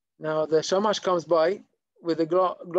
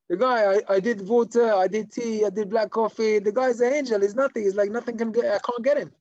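higher, mildly worked-up protest; exasperated report; 4 semitones higher, 4 dB louder than usual. Acted. Shamash reporting failure to the rabbi, exasperated. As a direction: list each failed try in acted exasperation.

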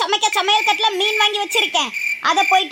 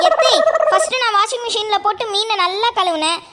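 naive daughter-in-law. Acted.

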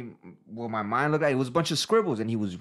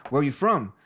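put-on Indian-accented question; 2 semitones higher, 4 dB louder than usual. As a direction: imitate an Indian man asking. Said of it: "He's got the Indian accent from India".

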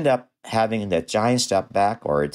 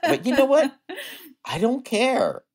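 laughing defiance. Real, not acted. Dentist laughing off the dad's glare, defiant. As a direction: laugh it off, I don't care.

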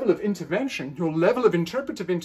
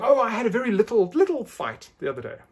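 casual aside; 4 semitones higher, 4 dB louder than usual. Retold or imitated. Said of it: "I'm reminded of someone saying".

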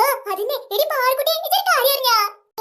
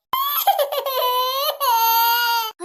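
fake sobbing; 3 semitones lower than usual. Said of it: "നന്നായിട്ട് കരയണട്ടാ".

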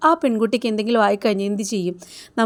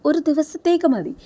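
menacing villain; 6 semitones higher than usual. Retold or imitated. Bank manager threatens crying girl.

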